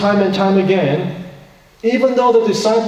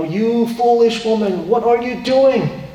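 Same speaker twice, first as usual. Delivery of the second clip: hammed-up outrage, scolding the woman; angry scolding; 6 semitones higher than usual. Disciples scolding the woman over wasted perfume, hammed-up angry voice. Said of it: "they were saying something like".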